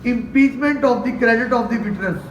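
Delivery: very slow, word by word legal term; drawn-out, careful definition; slow dictation. Shown as a demonstration. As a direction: say the term slowly so students can write it down. Lecturer stating a legal term.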